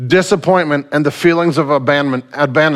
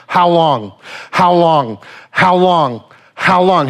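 repeated anguished question; slower than usual. Acted. Psalmist crying out to God over and over, insistent. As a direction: press the question again and again. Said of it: "four times he asked the same question".

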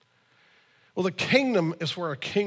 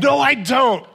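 louder, higher indignant denial; teen son insisting to dad; son's protest; 6 semitones higher, 7 dB louder, slower than usual. Retold or imitated. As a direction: push back hard like a teen. Son denying, retold argument.

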